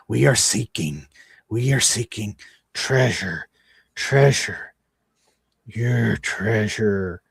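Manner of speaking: a hint of the rough creature voice, slowing at the end; lightly gravelly creature. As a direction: drag out treasure like a creepy thing. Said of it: "in this rough, gravelly sounding voice".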